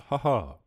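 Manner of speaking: small restrained two-beat laugh; a refined chuckle, like a critic sipping wine; polite gremlin chuckle. Retold or imitated. The beret-wearing gremlin at a Fallout joke, a dry polite chuckle. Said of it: "and he goes".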